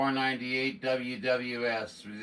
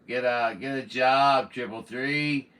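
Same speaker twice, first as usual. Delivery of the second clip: louder retort; scolding; 2 semitones higher, 5 dB louder than usual. Real, not acted. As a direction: tell him off sharply. Scolding rude caller on air.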